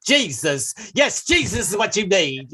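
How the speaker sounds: radio preacher. Retold or imitated. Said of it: "I can find a Jesus station".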